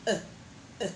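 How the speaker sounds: short neutral uh twice; schwa demo. Shown as a demonstration. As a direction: model the weak vowel. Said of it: "sounds un".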